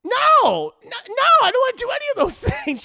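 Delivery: high, loud, rushed protest; mock panicked refusal. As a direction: refuse fast in hammed-up alarm.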